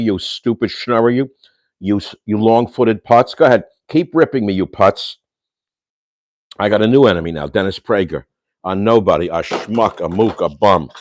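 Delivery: getting mad. Real, not acted. Ranting at Dennis Prager for attacking him, furious. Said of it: "I'm getting mad now".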